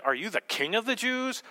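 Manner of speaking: "the KING of the Jews", emphasis mid-question; stress on KING. Shown as a demonstration. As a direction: lean on the word KING in the question. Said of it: "different ways that he could have said this".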